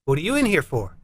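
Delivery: lightly voiced inmate; inmate asking. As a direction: ask as one prisoner to another. Prison chat, first inmate asks.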